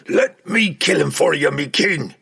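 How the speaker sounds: loud, high battle-eager cry. A narrator's reading. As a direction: cry out, begging leave to attack. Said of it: "Puent cried".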